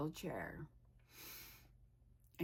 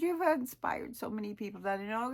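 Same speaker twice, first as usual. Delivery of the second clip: higher-pitched retold praise; enthusiastic praise; 5 semitones higher, 4 dB louder than usual. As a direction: act out a friend gushing with admiration. Acting out friend's heartfelt praise.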